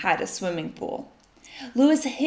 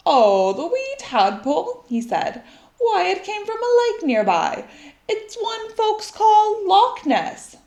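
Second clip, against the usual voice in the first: a folksy Scottish uncle chatting; 12 semitones higher, 4 dB louder than usual. Acted. Uncle McAllister on the phone, lightly Scottish.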